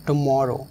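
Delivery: "tomorrow" with the weight on "mor"; light "to", stressed "MOR" in "tomorrow". Shown as a demonstration. Teacher introduces "tomorrow" with stress on MOR. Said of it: "ओ पर stress है".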